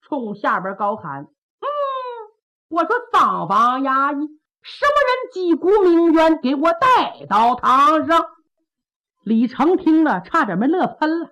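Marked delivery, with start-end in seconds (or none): 1.6-8.3 a slightly strange magistrate's call, drawn out at the end; odd official drawl. Acted. Magistrate calls constables to bring plaintiff in, odd drawl. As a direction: call out like a shabby county magistrate with an odd twang. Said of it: "这声可怪别扭的".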